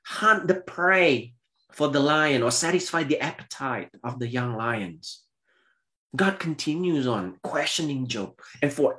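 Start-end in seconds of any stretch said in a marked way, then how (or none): 0.0-5.2 God's challenge. Acted. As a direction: thunder the first words like God. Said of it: "he continued to say".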